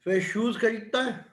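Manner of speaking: measured classroom dictation, piece by piece; slow dictation. Real, not acted. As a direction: dictate slowly, with long pauses between phrases. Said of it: "मैं धीरे धीरे बोलता हूँ". (धीरे-धीरे, रुक-रुक कर लिखवाते हुए)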